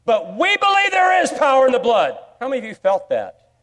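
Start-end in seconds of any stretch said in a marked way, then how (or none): 0.1-2.2 loud, high, preaching declaration; fervent believers. Retold or imitated. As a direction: proclaim it like devout parents. Parents quoted in testimony.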